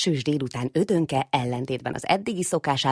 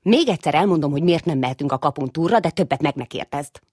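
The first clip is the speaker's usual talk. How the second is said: grumbling; 5 dB louder than usual. Acted. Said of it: "mondja az öccsének morogva".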